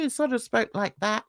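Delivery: soft Southern Irish lilt. Retold or imitated. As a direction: imitate a softly lilted Southern Irish speaker. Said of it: "quite a soft lilt".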